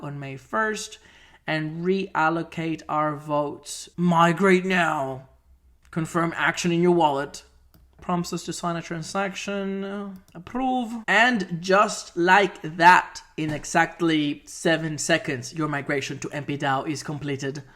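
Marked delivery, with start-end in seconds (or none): 4.0-5.3 slow flat robot voice. Acted. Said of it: "I'm speaking like a robot". 5.9-17.6 flat machine-like narration; robot voice. Acted. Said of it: "I'm speaking like a robot".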